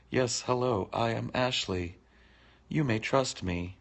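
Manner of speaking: mock trustworthy stranger. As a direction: play a fishy stranger vouching for himself. Putting on fake persona.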